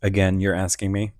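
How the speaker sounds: talking while crunching; crunching chips. Real, not acted. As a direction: mouth full of chips. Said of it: "Don't mind me crunching that one".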